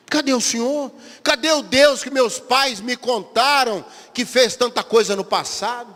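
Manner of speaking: a believer confronting God about broken promises; complaining to God. Acted.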